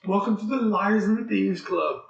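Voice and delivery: a playful, overdone showman welcome; mock announcer. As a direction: greet them like a showman opening a club. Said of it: "My throat is so raspy".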